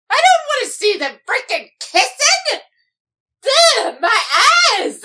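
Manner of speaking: disgusted groan. Acted. Disgusted at kissing.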